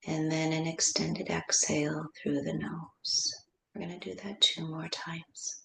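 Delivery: measured, softening breathing cues; guided meditation. Real, not acted. Teacher leading inhale and exhale through the nose, hushed meditation voice. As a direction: lead the breath gently, letting the voice drop away.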